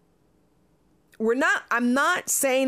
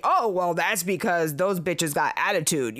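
mocking the men; 5 semitones lower than usual. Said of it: "these gentlemen in this video are saying".

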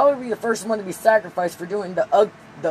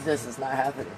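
quiet mock Jedi command; 7 semitones lower, 9 dB quieter than usual. Jedi mind trick, softer.

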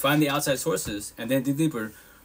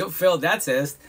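laughing self-mockery; 4 semitones higher, 4 dB louder than usual. Real, not acted.

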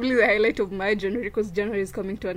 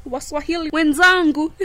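laughing; 5 semitones higher, 8 dB louder than usual. Real, not acted. Teasing fellow Swahili speakers.

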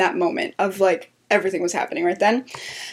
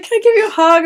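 much higher, louder, eager asking voice; imitating a sweet plea; 11 semitones higher, 5 dB louder, faster than usual. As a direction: ask for the hug sweetly, hopeful. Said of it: "she's like".

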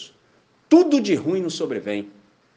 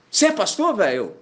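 surprised question; 4 semitones higher than usual. Retold or imitated. Stranger surprised he is a pastor.

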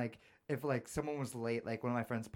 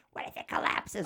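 mock worried adult; 6 semitones higher than usual. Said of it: "we all got yelled at for it".

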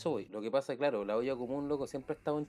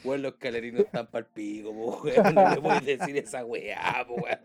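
indignant; 9 dB louder than usual. Real, not acted. Indignant about insulting the club.

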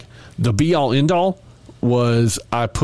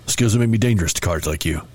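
a hint of the Taken phone call; mild Liam Neeson menace over a card; Liam Neeson impression. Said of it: "I do a terrible Liam Neeson impersonation".

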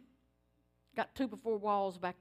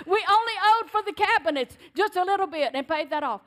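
high, louder, laughing and tearful; laughing through tears; 6 semitones higher, 8 dB louder than usual. Real, not acted. Preacher telling how the house was paid, laughing through tears. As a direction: let the joy break the voice. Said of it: "laughing and crying while testifying".

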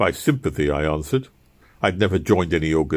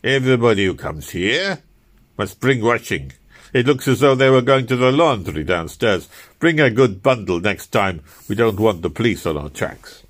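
lightly voiced fussy conspirator; 3 semitones higher, 4 dB louder than usual. Conspirator instructing the narrator.

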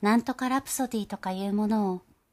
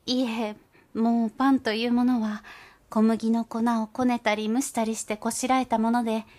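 polite, somewhat louder humble mouse voice; humble mother mouse; 2 semitones higher, 4 dB louder than usual. Acted. Mother mouse humbly tells Gauche they never take bread. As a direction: decline humbly and earnestly.

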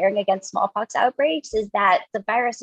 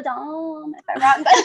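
laughing; 5 semitones higher than usual. Real, not acted. Nervous about being wrong.

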